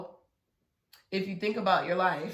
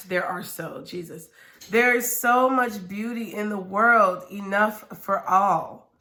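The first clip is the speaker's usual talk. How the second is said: reading aloud. Acted. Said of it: "basically it says".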